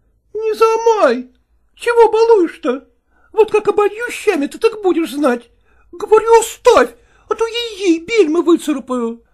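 high, loud scolding peasant woman; shrill it out like a village cook fending him off. Acted. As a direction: peasant cook shouting at a pawing man. Cook fends off Nikifor.

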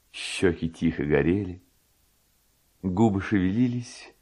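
ordinary delivery

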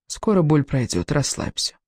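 soothing, trailing into softness; calm, reassuring. Acted. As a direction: reassure gently, softening on the last word. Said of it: "говорить спокойным, уверенным голосом". (спокойно, утешающе, затихая)

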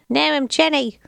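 high-pitched, played-up low-class British accent. Co-host voicing the sad girl at a funeral, low-class British accent. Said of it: "low-class accent".

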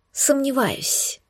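soft slow whispered Сомневаюсь. Acted. Heroine whispering doubt to the demon. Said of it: "прошептала я".

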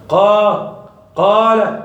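قا open mouth, air flowing from the chest; easy alif demo. Shown as a demonstration. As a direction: let قال flow out openly. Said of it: "افتح فمك فقط".

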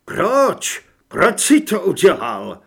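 loud, anguished questioning; pained disbelief. A narrator's reading. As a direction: demand a reason from a betrayed friend. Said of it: "V jeho hlase zaznívala bolest a nevíra". (zraněné, nevěřícné naléhání)

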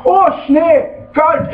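exaggerated high-pitched gripe; grumbling complaint. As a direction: imitate a never-satisfied grumbler. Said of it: "er schimpft".

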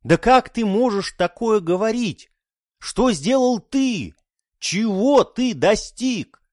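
indignant son. Acted.

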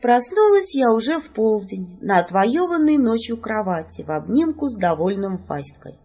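plain reading voice

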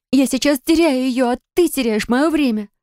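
high, frustrated outburst; angry shout. Acted. Sher yells at Drafok for wasting her time. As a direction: snap at him, desperate. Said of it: "закричала я".

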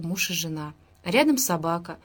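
ordinary delivery, nothing marked

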